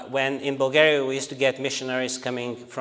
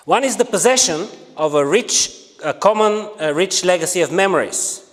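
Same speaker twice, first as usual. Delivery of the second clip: formal quote reading. Acted. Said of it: "this is how he defines a nation".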